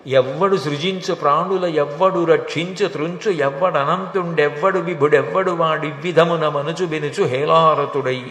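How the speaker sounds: rhythmic, driving poem recital; verse recitation. Acted. Preacher quoting the verse on God the creator, as rhythmic recitation. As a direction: recite the verse in one metrical run.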